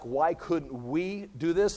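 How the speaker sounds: slow question, leaning on "we"; "we" drawn out and emphasized; stress on "we". Shown as a demonstration. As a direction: stretch out "we" as the emphatic word. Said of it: "the emphatic in the Greek is the word "we".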